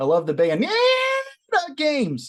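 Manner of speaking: very high, swooping, slow squeaky drawl. Reading out Brian's message the way he would say it: imitating Brian's squeaky voice. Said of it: "would squeak his voice when he says this".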